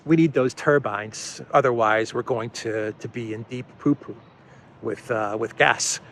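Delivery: a hint of a low, worried Olaf; Olaf impression. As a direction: play a weary chancellor begging for turbines. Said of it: "And then Olaf would have said".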